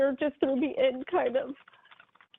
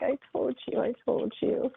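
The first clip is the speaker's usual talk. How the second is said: a gentle, loving I told you, lightly imitated; mild imitation of a loving voice; lovingly. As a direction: echo a fond told-you-so, not a scold. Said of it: "he's saying it so lovingly".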